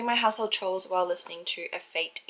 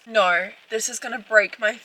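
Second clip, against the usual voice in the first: tearful; 13 dB louder, slower than usual. Real, not acted. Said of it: "I'm already crying".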